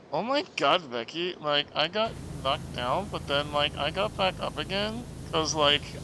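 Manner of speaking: lightly voiced Valley Girl with a hint of Irish; breezy mock Valley Girl chatter; a light Valley Girl impression. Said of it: "I could do a Valley Girl".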